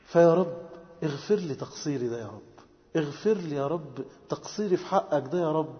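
humble plea. Acted. Servant asking the Lord forgiveness, humbly pleading.

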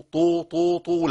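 «طو» isolated with a heavy popped t; wrong ta. Shown as a demonstration. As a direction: repeat «طو» as the mistaken sound for dad. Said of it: "أبدلت الضاد بإيه؟". («طو» بطاء مكان الضاد)

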